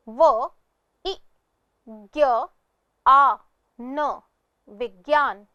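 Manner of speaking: "व, इ, ज्ञ, आ, न" one by one, then "विज्ञान"; sounding out. Shown as a demonstration. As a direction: break "विज्ञान" into isolated sounds, then say it whole. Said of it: "इस शब्द का उच्चारण". ("विज्ञान" का अक्षर-अक्षर, फिर पूरा उच्चारण)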